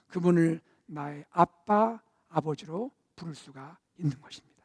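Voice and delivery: preacher whispering in awe; hushed awe. Acted. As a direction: drop to an intimate hush. Intimate contrast after climax.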